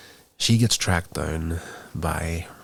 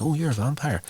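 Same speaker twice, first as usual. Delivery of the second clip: blurted out; 9 semitones higher than usual. Retold or imitated. Cordelia blurting to Russell that he's a vampire, high surprised blurt. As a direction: blurt it before you can stop yourself. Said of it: "She blurts it out".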